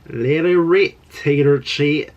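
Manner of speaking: loud, playful quoting of a teacher's Southern-style catchphrase. Retold or imitated. Quoting her teacher's catchphrase to kick off the video, loud and playful. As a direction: belt out the old teacher's rhyme, then drag the last words slowly. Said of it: "My teacher used to say that".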